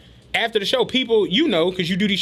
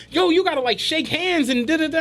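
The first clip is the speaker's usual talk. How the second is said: imitating Clint; 7 semitones higher than usual. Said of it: "Clint came over and was like".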